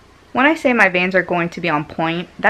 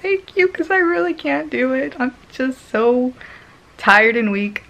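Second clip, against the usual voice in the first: tired thanks; 6 semitones higher than usual. Retold or imitated. Exhausted thanks to nurse.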